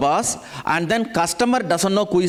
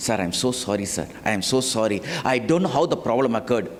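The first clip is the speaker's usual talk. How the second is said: low-pitched, slightly subdued apology; apologetic; 4 semitones lower, 3 dB quieter than usual. Acted. PRO apologizes to the unhappy customer, subdued and placating.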